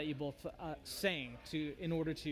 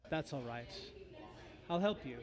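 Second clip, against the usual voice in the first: coaxing bone devil; 3 semitones lower, 4 dB quieter than usual. Acted. Bone devil coaxes the cripple.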